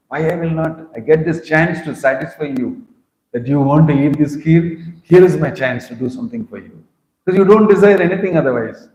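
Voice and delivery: Krishna bursting to serve his devotee; eager Krishna. Acted.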